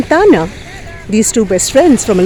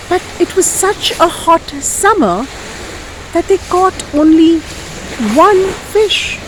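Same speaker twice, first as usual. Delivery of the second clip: animated, lilting storyteller; lively folk tale telling; story narration for children; 3 semitones higher than usual. Acted. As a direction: tell it with big swoops on key words.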